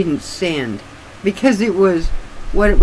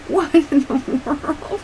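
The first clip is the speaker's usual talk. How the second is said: surprised laughing; 11 semitones higher, slower than usual. Retold or imitated. Reacting to the cat's howl being recorded.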